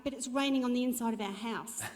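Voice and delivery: half-laughing through the news; laughing retell. Retold or imitated. Wife telling her husband on the phone, laughing. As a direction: laugh as you tell him it's pouring indoors.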